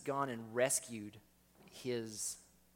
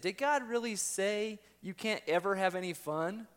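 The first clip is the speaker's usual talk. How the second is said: much higher and louder mocking tempter; twisting voice; 7 semitones higher, 6 dB louder than usual. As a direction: twist it into a taunt. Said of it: "even the voice twists it".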